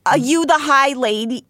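high, squeaky put-on voice; a strained high creature voice. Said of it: "I forget her voice".

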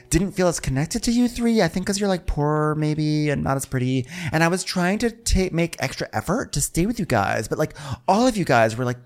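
high, put-on wounded voice; mock hurt. Telling friends she felt excluded, high mock hurt.

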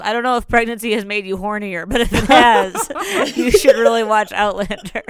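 can barely get the words out for laughing; laughing quote. Retold or imitated. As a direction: quote her while cracking up. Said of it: "your exact words were something along the lines of".

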